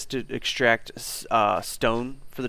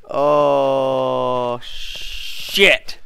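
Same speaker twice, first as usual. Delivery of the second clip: being chased; 8 dB louder than usual. Real, not acted. Bear catches him.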